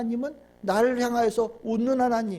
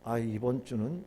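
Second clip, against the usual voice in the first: low, soft, acted reluctance; reluctant grumbling; 7 semitones lower, 7 dB quieter than usual. Preacher playing a churchgoer dreading God's look, reluctant grumbling. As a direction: grumble quietly to yourself, backing out.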